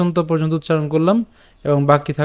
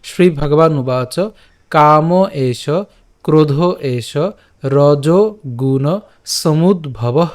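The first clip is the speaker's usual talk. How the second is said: full recitation; much slower than usual. Shown as a demonstration. Teacher recites the whole verse again for students. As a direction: recite the whole verse in one slow sweep. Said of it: "আবার প্রথম থেকে বলছি".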